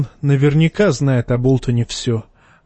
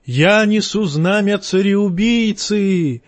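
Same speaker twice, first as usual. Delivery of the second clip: higher, slow triumphant shout; 7 semitones higher, slower than usual. A narrator's reading. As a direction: yell it out as a taunt. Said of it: "крича".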